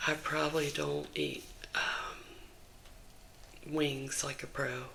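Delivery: gentle whispered chat to viewers; ASMR whisper. Real, not acted. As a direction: whisper it all, close to the mic. ASMR whisper vlog throughout.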